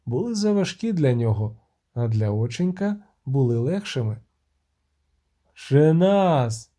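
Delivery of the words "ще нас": loud indignant cry; shout. Acted. The bard cries out to the siren, loud. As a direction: fling it back as a shout. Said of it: "закричав він".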